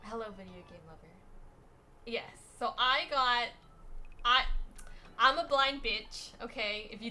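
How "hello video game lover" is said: quick silly greeting. Acted. Streamer greets a viewer in a funny voice.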